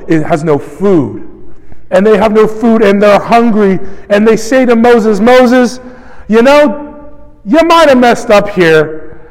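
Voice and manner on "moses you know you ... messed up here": mild complaint. Retold or imitated. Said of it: "increasing intensity and antagonism".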